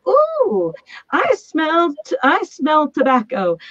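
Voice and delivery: imitating the mentor, a high intrigued "Ooh" that slows down; mentor's intrigued voice. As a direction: sound like a mentor who has just caught a scent. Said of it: "I remembered my mentor saying".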